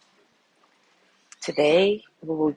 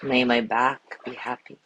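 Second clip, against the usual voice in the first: calm, measured voice with long pauses; guided meditation. Acted. Teacher guiding listeners through a loving kindness body scan, calm meditation voice. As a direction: lead them gently through each phrase, leaving space after it.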